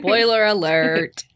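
deep voice. Real, not acted. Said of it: "Why did I say that so deep?".

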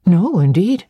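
quick interjection. A narrator's reading. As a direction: break in to object. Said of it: "I interjected".

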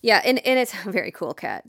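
chuckling through very cool Kat, catching the pun; laughing at the pun. Real, not acted. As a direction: laugh as the cool cat joke lands. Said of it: "Does that happen?".

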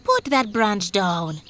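slow, measured tree voice; lightly voiced talking palm tree. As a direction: order him slowly as the tree. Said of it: "the palm tree said".

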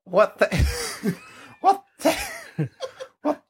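screechy high witch voice, laughing; failed Irish accent turning witchy. Pretend. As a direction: cackle it out like a witch. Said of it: "It's like a witch voice".

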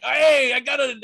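high, loud panicked yell; mock panicked shout. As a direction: yell as you slip.

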